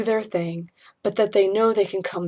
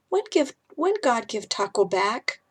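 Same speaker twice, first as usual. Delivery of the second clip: put-on high, timid small boy; sleepy little boy calling for mommy; 4 semitones higher than usual. Little boy Ethan in story.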